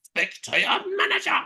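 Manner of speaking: attempted British accent, like a Muppet; posh British demand, lightly done. Retrying the Karen line in a faltering British accent. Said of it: "she says it in a British accent".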